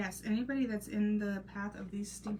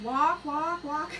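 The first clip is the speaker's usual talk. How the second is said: higher, louder repeated command; mock urgent call; 6 semitones higher, 7 dB louder, slower than usual. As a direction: call after him to slow down. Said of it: "I was like".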